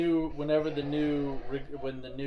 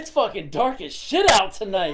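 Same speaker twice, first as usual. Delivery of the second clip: laughing; 5 semitones higher, 7 dB louder than usual. Retold or imitated. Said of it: "and I'm like".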